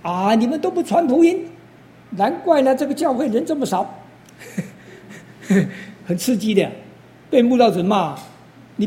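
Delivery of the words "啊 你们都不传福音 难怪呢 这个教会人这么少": loud scolding. Retold or imitated. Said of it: "讲话很大声呢".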